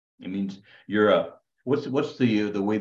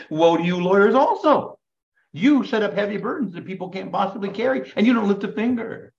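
Jesus denouncing; 11 semitones higher, 5 dB louder than usual. Retold or imitated.

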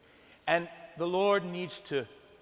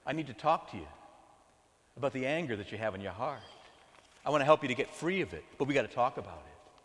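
gentle firm Lord; 3 semitones lower than usual. Acted. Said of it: "the Lord has to say".

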